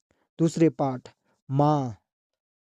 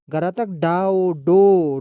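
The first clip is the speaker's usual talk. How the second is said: slow spelling-out; 5 dB louder, slower than usual. Shown as a demonstration. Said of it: "रुकना है।".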